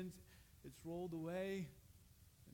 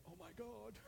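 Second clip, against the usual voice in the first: exasperated oh my God; 4 semitones higher, 6 dB quieter than usual. Shown as a demonstration. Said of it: "instead of saying".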